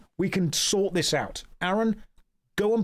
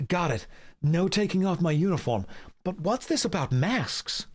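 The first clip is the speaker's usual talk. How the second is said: shonen anime protagonist. Acted. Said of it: "My character is voiced like a shonen anime protagonist".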